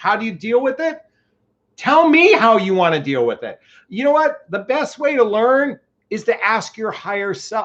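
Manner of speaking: loud yelling. Speaker addressing an audience of ladies: yelling. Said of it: "I'm sorry, I'm yelling".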